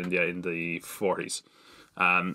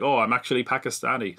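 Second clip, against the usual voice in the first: put-on dodgy Pakistani accent; 3 semitones higher than usual. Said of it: "he does a dodgy Pakistani accent".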